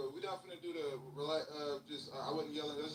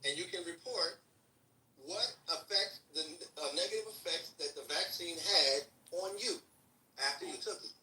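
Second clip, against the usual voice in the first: slow, deliberate, word by word; patronisingly slow explanation; said slowly. Shown as a demonstration. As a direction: spell it out slowly for someone who isn't getting it. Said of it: "I'll say it slow this time".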